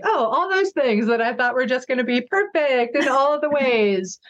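lightly mock your own rosy expectations; mock naive. Mocking her own naive former expectations.

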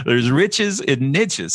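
"niches" said "nitches", rhyming with "riches", slow; "niches" rhymes with "riches", drawn out; pron riches and niches. Shown as a demonstration. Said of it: "Don't say niches".

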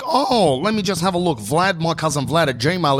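mock-friendly customer service; friendly assistant. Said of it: "she was just so friendly".

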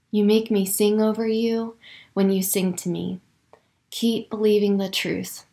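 hushed devotional letter; tender letter reading. Acted. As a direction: read God's words gently over the listener. Reads God's journaled letter.

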